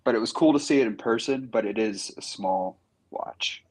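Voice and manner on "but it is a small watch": soft unvoiced whisper. Real, not acted. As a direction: whisper it to the group. Whispered aside about watch size.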